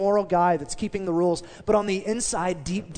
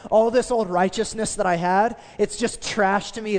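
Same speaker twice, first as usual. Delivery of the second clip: firm, emphatic, a bit louder; adamant; 3 semitones higher, 3 dB louder than usual. Retold or imitated. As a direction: insist on it, dismissing the old ways. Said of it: "he's very adamant".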